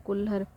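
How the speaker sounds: कुल्हड़ said with final र, kulhar; corrected ending. Shown as a demonstration. Teacher repeating the correct form, कुल्हड़ with final र. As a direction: end कुल्हड़ on a simple r, no flap. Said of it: "बल्कि र रहता है".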